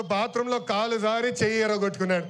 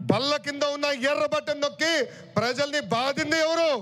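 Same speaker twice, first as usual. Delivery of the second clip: rising rhetorical shout; 3 semitones higher than usual. Real, not acted. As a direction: hammer each ఎవరు? at the crowd. Rally speech accusing rivals. (ఆవేశంగా గట్టిగా ప్రశ్నించడం)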